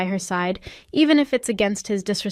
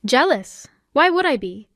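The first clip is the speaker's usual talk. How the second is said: higher-pitched, mildly incredulous retort; dismissive disbelief; 5 semitones higher, 3 dB louder than usual. A narrator's reading. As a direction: toss the question back as absurd. Scoffing at rival's jealousy question.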